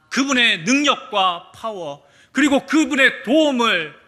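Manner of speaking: loud, high and slow proclamation; emphatic preaching. Acted. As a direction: lean hard on power and help. Preaching emphasis on God's power.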